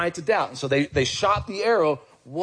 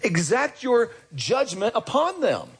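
mock imprecatory prayer; 7 semitones higher than usual. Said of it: "it's basically".

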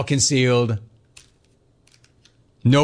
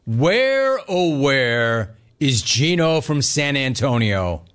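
mocking caller; slower than usual.

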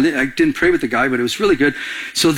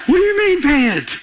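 much higher, laughing through a mock protest; laughing indignation; 9 semitones higher than usual. Telling the church how he argued with God, laughing and pitched high. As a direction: squeak it out in laughing disbelief.

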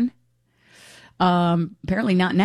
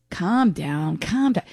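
condescending; much slower than usual. Retold or imitated. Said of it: "I feel like Helena's".

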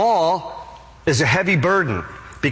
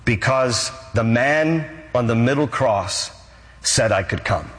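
deliberate answer, sinking lower at the close; simple sincerity; 3 semitones lower than usual. Acted. Thief answers angel about entering heaven, humbly sincere. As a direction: answer plainly, pausing between phrases.

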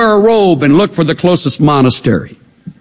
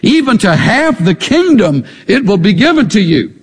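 voiced a bit higher as the eager king; king's generous offer; 5 semitones higher than usual. King urges Queen Esther to name her request, lightly voiced. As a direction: play the king pressing her to ask.

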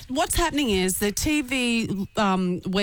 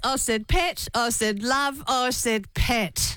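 Magda quote; slower than usual. Retold or imitated. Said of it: "I know that's Magda".

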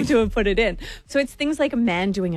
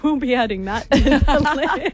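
laughing; 4 semitones higher than usual. Retold or imitated. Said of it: "I was like".

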